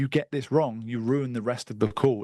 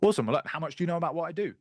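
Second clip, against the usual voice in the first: quick demo; 4 semitones higher, much faster than usual. Shown as a demonstration. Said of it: "So I say".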